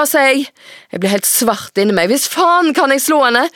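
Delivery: put-on steady, measured reading of a teen novel; story narration. A narrator's reading. Author reading her own novel aloud to the host. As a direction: read the chapter aloud to the audience.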